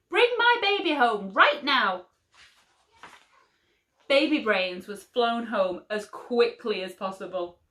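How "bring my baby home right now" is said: higher, louder angry order; angry demand. A narrator's reading. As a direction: demand it like a fierce mother. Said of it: "Missus Brains yelled".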